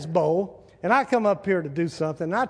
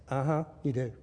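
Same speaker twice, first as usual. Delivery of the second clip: skeptical wife; 4 semitones lower, 7 dB quieter than usual. Acted. Wife doubts husband's denial.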